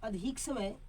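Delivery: अधिक समय spoken slowly for students to write; slow dictation. Shown as a demonstration. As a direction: dictate word by word with long pauses. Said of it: "dictation pauses". (धीरे-धीरे बोलकर लिखवाना)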